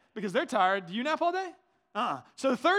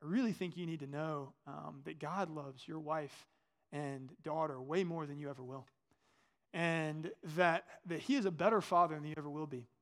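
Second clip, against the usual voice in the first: lower, softer, halting delivery; gentle reassurance; 5 semitones lower, 4 dB quieter than usual. Retold or imitated. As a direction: quietly deliver a heartfelt message, retold. Retells a stranger's gentle message.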